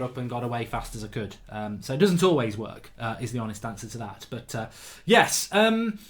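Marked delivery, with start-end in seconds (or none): 5.1-6.0 put-on high, loud, sing-song Irish accent. Vlogger to his viewers, drifting into a playful Irish accent. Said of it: "I don't know why I'm talking Irish".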